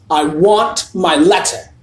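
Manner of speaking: Harry shouts at his uncle; shouted. A narrator's reading. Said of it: "he shouted".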